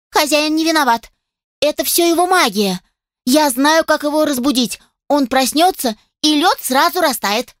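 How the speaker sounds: high, thin, frightened squeak; scared little voice. Acted. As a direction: plead in a tiny scared voice. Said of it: "тоненьким, дрожащим и испуганным голоском".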